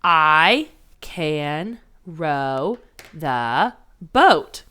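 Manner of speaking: counting words on fists. Shown as a demonstration. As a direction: tap out each word to count it. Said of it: "count how many words there are".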